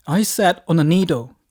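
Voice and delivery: loud, emphatic cry of alarm; put-on distress, word by word; distressed announcement. Panicked phone call to wife.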